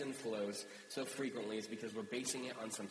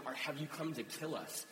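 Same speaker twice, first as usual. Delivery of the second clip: higher-pitched alarmed questioning; retold panic, raised voice; freaking out; 5 semitones higher, 3 dB louder than usual. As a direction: act out a frightened crowd's questions. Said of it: "they freak out".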